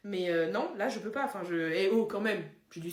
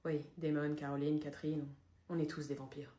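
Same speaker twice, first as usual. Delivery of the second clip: soft, hushed confession; secret confession; 9 semitones lower, 10 dB quieter than usual. Acted. Vampire confessing his secret to Mathilde, whispered.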